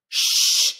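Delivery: long, loud "Shh" hiss; sh sound demo. Shown as a demonstration. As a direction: hold "Shh" for learners to copy. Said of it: "I want you to say".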